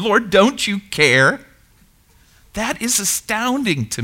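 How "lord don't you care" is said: indignant. Acted. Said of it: "her soul has the gall to ask the Lord".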